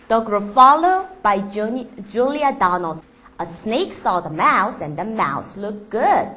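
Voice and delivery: slow storybook reading voice; story narration. Acted. Reading The Gruffalo aloud to the class, slow storytelling. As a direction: read aloud slowly to children.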